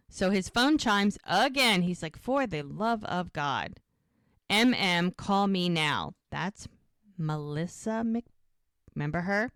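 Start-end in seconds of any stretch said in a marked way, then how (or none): 2.2-6.1 retold exasperation. Retold exasperation at repeated phone chimes.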